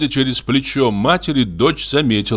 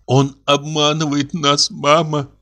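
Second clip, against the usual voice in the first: 1 stunned slow confession; 5 semitones higher than usual. A narrator's reading. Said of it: "проговорила она".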